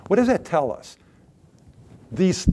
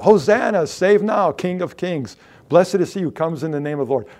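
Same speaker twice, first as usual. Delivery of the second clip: joyful cry; 4 semitones higher, 3 dB louder than usual. Acted. Voicing the stones crying out.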